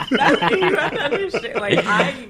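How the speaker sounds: high, loud, real laughter through the words; laughing. Real, not acted. Cook defending herself to teasing friends, laughing. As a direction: talk while still cracking up.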